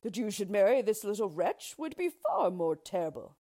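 loud, emphatic retort; forceful, anguished reply; impassioned king. A narrator's reading. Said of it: "answered the king".

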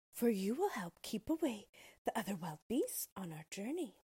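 a hint of a friendly young girl; Dorothy voice. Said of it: "answered Dorothy".

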